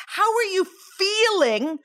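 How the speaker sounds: "feeling" stretched out and emphasized; stress on FEELING. Real, not acted. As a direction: lean into FEELING, holding it long. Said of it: "I'm stressing the word feeling".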